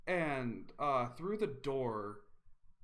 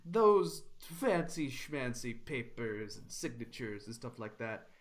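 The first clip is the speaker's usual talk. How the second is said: scoffing bandit. Acted.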